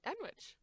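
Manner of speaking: Enwich said firmly, high, rhyming with sandwich; Enwich, said proudly and wrongly; determined Enwich. Retold or imitated. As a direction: insist on Enwich, pitch up. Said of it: "Very determinedly".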